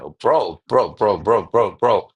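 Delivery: loud, high, thrilled bro; excited. Real, not acted. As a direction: hype it up, we nailed it. Celebrating the finished script.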